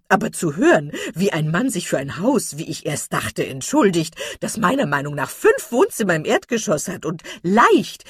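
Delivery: put-on loud, bustling, amused old lady; chattering matron. A narrator's reading. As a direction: rattle on cheerfully. Mrs Jennings chattering. (Mrs Jennings plaudert laut und vergnügt zu Elinor)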